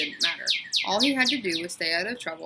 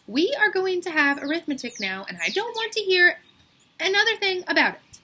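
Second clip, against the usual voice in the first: 1 stern teacher; 11 semitones higher, 7 dB louder than usual. A narrator's reading. Teacher scolding the class.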